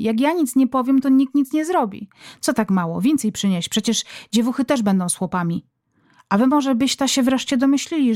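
a hint of a shrill nagging village mother, rising in annoyance; mother barking chores at husband before Christmas Eve supper. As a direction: scold the family like a fed-up mother. Reader acts nagging mother at Wigilia.

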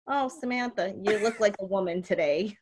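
softly delivered mock compliment; a hint of bubby sizing you up; imitated backhanded grandmother.

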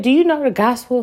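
lightly voiced question from a stranger; a hint of the street preacher asking; quoting the stranger. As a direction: ask it like the man did, lightly. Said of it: "Some man just literally said".

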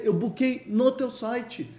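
mock indignant customer. Customer protesting to Booking.

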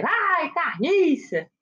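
"Ai, carniça!" stretched slow, "ai" long and falling; drawn-out mock call. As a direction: drag out "Ai" then "carniça" as a lazy call from above. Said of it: "eles gritam lá assim".

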